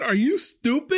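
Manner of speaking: high-pitched, incredulous mock scolding; exasperated coworker. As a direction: imitate a coworker's squealed disbelief.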